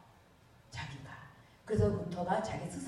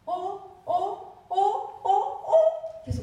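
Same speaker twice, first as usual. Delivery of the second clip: rising excitement; 11 semitones higher, 5 dB louder, much slower than usual. Retold or imitated. Luther's excited discovery.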